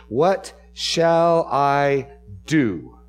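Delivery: "What shall I do?" drawn out very slowly, each word weighed; emphasis on doing. Shown as a demonstration. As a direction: lean hard into the doing. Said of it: "notice the emphasis of his question".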